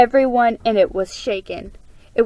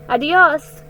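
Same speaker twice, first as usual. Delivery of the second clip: higher, louder farewell called across a distance; calling out; 6 semitones higher, 7 dB louder than usual. A narrator's reading. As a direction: shout goodbye after them. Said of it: "the women called out".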